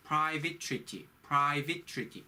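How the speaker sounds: private treaty with curled r and lip-bitten v; pronunciation demo of private treaty; curled R, real V. Shown as a demonstration. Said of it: "혀를 말아줘야 되고요 ... 끌어줘야 돼요".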